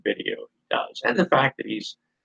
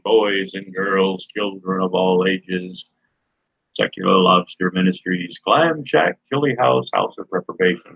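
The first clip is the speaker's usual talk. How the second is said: grand entrance announcement. Acted. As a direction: announce it like a circus ringmaster. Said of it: "come up on co-host".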